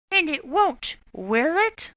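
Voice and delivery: high, loud threatening question; menacing witch. Acted. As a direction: warn the class. Swamp warning class.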